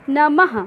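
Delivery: नमः ending in an audible ha; visarga ha. Shown as a demonstration. Teacher demonstrating visarga to students. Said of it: "हा का उच्चारण हुआ ना".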